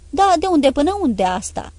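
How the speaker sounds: offended snap; indignant retort. Acted. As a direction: fling the question back at him. Emilia snapping back at Ladima.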